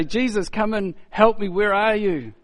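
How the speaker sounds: a touch of anxious begging; imitating desperate plea. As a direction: call out for help, lightly acted. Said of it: "we call out to Jesus".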